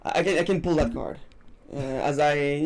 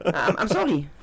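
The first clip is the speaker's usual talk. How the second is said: put-on higher, louder laughing French accent with a French r; mock French accent; 6 semitones higher, 5 dB louder than usual. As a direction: play the apologetic Frenchman, laughing. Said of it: "I can pull my best French accent".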